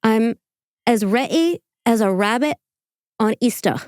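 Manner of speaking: halting imitation of his accent, dropped R on Easter; poorly faked accent, phrase by phrase; bad accent attempt. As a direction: attempt his accent in careful, separated chunks. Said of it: "Let me try that again".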